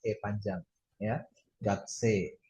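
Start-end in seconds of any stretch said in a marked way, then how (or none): 1.6-2.4 gakse as "gak-see", no u or i; long e. Shown as a demonstration. Teacher repeating the correct reading, long e. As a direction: hold the final e of gakse. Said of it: "dibaca sebagai vokal panjang".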